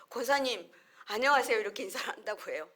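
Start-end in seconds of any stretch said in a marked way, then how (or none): 0.1-1.6 put-on a child stepping up to greet an elder loudly; bright loud greeting. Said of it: "앞에 가가지고".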